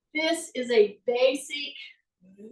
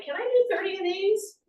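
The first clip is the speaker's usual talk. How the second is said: higher inner question to yourself; asking yourself; 6 semitones higher than usual. Retold or imitated. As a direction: wonder aloud if you can manage. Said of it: "you say".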